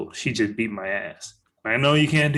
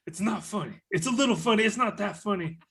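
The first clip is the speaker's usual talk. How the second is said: giggling; 9 semitones higher than usual. Real, not acted. Laughing at own joke.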